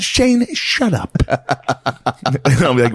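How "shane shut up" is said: higher, slow mock dad brushoff; a dad telling his son to shut up, mock annoyed; mock dad snapping. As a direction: brush the kid off, hammed-up. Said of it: "He's like".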